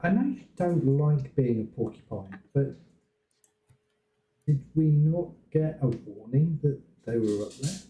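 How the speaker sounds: muffled mic, hard to hear. Real, not acted. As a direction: talk through a muffled mic. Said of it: "Sorry, mate, you're really muffled".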